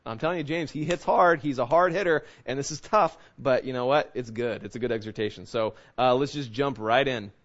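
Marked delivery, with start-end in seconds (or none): none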